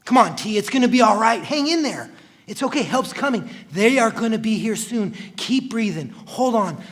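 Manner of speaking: loud, high pleading, slowing on the last lines; desperate pleading. Acted. Begging his dying brother to hang on, desperately.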